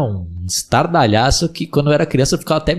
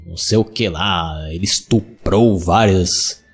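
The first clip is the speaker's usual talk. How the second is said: movie trailer voice; 5 semitones lower, slower than usual. Retold or imitated. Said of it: "O cara falava lá".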